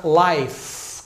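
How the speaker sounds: "life" slow, final E left silent. Shown as a demonstration. English teacher models the singular word, silent final E. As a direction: say "life" ending on the F sound. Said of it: "Letra E no final é muda".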